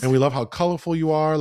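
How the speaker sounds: high, loud, fast gushing; gushing mock enthusiasm. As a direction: overeager fawning, hammed up. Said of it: "basically tell them, like".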